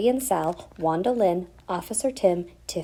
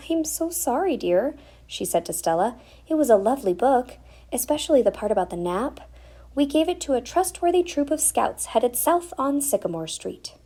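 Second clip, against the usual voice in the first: mother's voice; 6 semitones higher than usual. Acted. Mother answering, higher voice.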